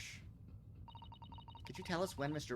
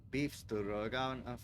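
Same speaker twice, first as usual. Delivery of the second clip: slow careful repeat; much slower than usual. Shown as a demonstration.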